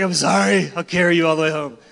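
a touch of pleading sorry; lightly voiced apology to the puppy; apologetic to the dog. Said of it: "I'm like".

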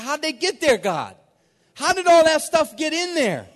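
high, loud baffled question; incredulous protest. Retold or imitated. Preacher retells questioning God about his heart, incredulous. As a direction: demand an answer in acted disbelief.

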